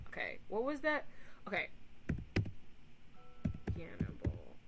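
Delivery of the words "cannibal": much lower, odd-voiced word; sudden low silly voice; odd low stim voice. Real, not acted. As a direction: drop into a strange low voice.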